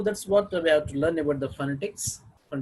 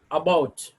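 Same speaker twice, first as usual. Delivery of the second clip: "about" with the weight on "bout"; stress on second syllable; 4 dB louder than usual. Shown as a demonstration. Teacher showing word stress to learners, "about" stressed on "bout". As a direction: lean on the second syllable of "about", leaving the "a" weak. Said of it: "can have the stress on ba sound".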